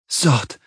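understated high moan; moaned word. A narrator's reading. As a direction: moan it out with the pitch lifted. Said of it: "she moans".

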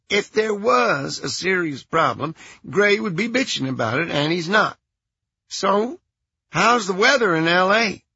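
airy, unbothered phone voice; Merrill's voice. A narrator's reading. Voicing Merrill.

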